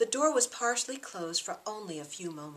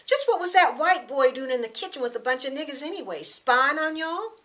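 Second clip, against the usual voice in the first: raised, heated outburst, climbing higher and louder; angry; 8 semitones higher, 9 dB louder than usual. Acted. Thomas sneering at the girls about the white boy, angry and loud. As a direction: spit it out in disgust, rising to a shout.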